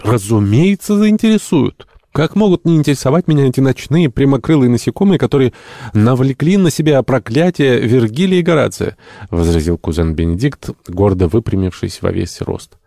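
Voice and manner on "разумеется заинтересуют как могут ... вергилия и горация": high, loud, indignant enthusiasm; impassioned retort. A narrator's reading. Entomologist defends cockroaches to the captain, in impassioned retort. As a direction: protest fervently, pitched well up.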